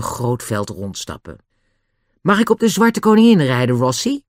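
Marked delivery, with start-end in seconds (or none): 2.2-4.2 pleading. Acted. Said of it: "vroeg Nobby smekend".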